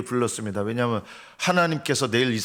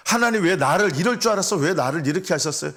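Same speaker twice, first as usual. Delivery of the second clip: higher-pitched mock complaint to God; 원망 imitated; 5 semitones higher than usual. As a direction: imitate someone blaming God, pitch jumping up at the start. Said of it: "이렇게 하나님께 원망해서는". (하나님을 원망하는 사람을 흉내 내듯 높은 목소리로)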